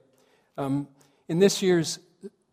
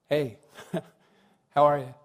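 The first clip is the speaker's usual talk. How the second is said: casual, offhand greeting; 3 dB louder than usual. Acted. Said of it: "Don't really tell me".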